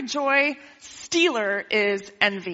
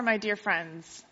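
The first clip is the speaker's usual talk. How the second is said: tender reading; 4 semitones lower, 8 dB quieter, slower than usual. Shown as a demonstration. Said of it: "Oh, I'm doing it".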